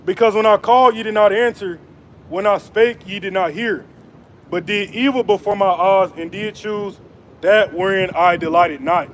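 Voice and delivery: measured preaching cadence, weighty and deliberate; scripture reading. Acted. Preacher reading Isaiah to his viewers, solemn proclaiming. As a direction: proclaim the verses like a street preacher.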